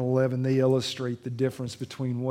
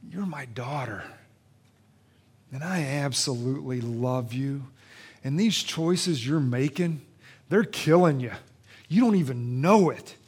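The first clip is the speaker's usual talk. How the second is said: tender to pleading; 4 semitones higher, 5 dB louder than usual. Acted. Jesus whispers to woman, imagined.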